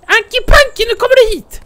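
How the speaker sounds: loud taunting call across the field. Acted. Player calling loudly to the bear Anki Panki. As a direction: shout it out to lure the other bear.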